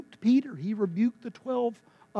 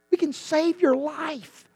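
firm promise; 9 semitones higher, slower than usual. Acted. Doctor's promise said twice.

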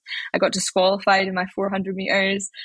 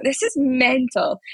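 amazed disbelief; 6 semitones higher, much slower than usual. Retold or imitated. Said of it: "just being like".

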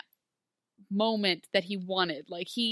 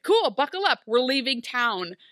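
breezy mock bravado; 3 semitones higher, 5 dB louder than usual. Emma driving off with Henry, loud breezy bravado. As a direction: sell it like a reckless getaway line.

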